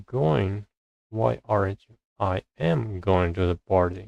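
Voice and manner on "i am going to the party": "am" stressed with a pitch lift. Shown as a demonstration. Learner practising emphatic auxiliaries, stress on "am". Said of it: "We stress am".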